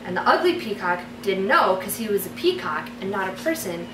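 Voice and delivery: story narration. Acted. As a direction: read it like a bedtime story. Reads her fairy tale aloud.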